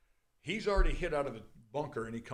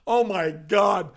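excited disbelief; 5 dB louder than usual. Retold or imitated. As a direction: imitate an excited caller, mildly at first. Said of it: "And she's excited".

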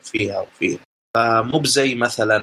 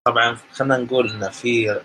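far from mic. Real, not acted. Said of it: "صوتك ترى يقطع شوي".

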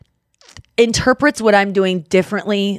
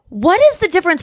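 exasperated; 7 semitones higher, faster than usual. Retold or imitated. Retold argument with ex, exasperated.

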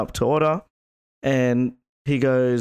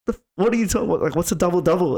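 higher-pitched mock exasperation; retold anger; 6 semitones higher, much faster than usual. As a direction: act out a fed-up customer, voice raised in pitch. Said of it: "he got so angry".

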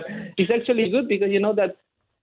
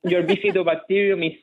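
Chilean accent. Real, not acted. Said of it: "he has a delightfully thick Chilean accent".

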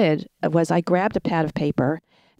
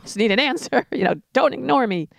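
frustrated; 4 semitones higher than usual. Retold or imitated. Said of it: "I just felt like".

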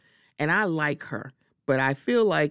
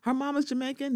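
imitating Lisa; 7 semitones higher than usual. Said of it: "the way that she words it is very much like".

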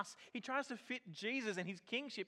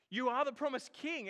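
louder and higher, with force on are; emphatic declaration; 4 semitones higher, 6 dB louder than usual. Retold or imitated. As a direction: insist that you are the promised king. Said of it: "Peter's like".

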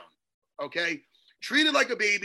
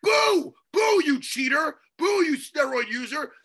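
booing; 3 semitones higher than usual. Real, not acted. Booing a cheater.

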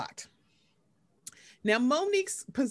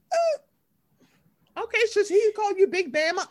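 sarcastic mock; 10 semitones higher, 3 dB louder than usual. Retold sarcastic reaction.

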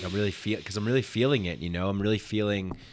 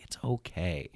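soft, calm and a bit quieter; gentle reassurance; 3 dB quieter than usual. Retold or imitated. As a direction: say it like a soothing friend. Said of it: "You know, like".

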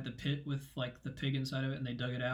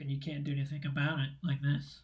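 pinching nose. Real, not acted. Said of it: "I could put this giant clip on my nose".

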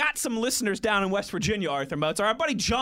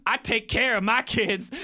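Chris Rock impression. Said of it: "In my Chris Rock voice".

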